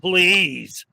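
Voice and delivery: lightly voiced Valley Girl sass; a hint of a snarky Valley Girl; Radical Brittany Valley Girl. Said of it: "when you do the Valley Girl voice".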